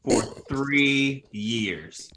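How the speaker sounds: slow, voiceless accusing whisper. Acted. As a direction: hiss it slowly like a secret accusation. Teasing friend about old roast.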